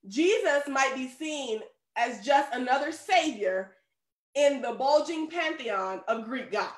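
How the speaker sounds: slow, deliberate commentary reading; reading aloud. A narrator's reading. Preacher reads a commentary to the congregation, slow and deliberate. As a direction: read it out carefully, word by word.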